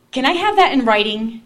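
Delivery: laughing loudly through the question; laughing plea. Retold or imitated. Grabbing the priest's habit, asking for it in writing, loud and laughing. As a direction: blurt it out loud, cracking up.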